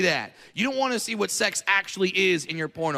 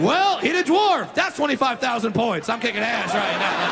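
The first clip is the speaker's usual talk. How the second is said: gloating gamer; 2 semitones higher, 3 dB louder than usual. Retold or imitated. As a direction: gloat like racking up points. Driver's gamer thoughts.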